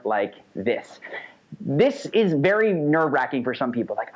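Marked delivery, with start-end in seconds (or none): 0.0-1.0 slower, lower, fuller tone; slow, resonant commanding voice. Shown as a demonstration. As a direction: speak from the chest with command. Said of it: "raise the volume and lower the timbre".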